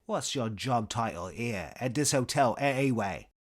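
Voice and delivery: irritated British accent, lightly acted; testy English comedian's voice; Eric Idle. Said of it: "impression of Idle's Cambridge-tinged inflections".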